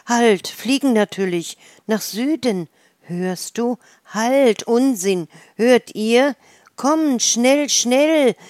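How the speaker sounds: high, loud, hurried swallow cries calling each other; rally the flock to fly south, loud and urgent; wild excited calling. A narrator's reading. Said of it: "Wild und laut riefen sie einander aufgeregte Worte zu".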